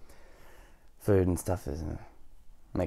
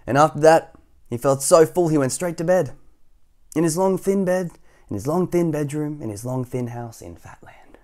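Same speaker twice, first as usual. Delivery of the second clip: raised lilting start, softening to the end; story narration; 7 semitones higher, 9 dB louder than usual. A narrator's reading. Reader putting Mister Skinny to bed, lilting narration. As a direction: let the repeated phrases wind down.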